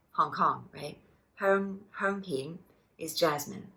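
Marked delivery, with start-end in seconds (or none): 1.3-2.6 slow Herm, hermpin with a high herm and a rising pin; slow tone demo. Shown as a demonstration. Teacher slowly modelling the tea name, careful. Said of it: "high tone herm, mid rising pin".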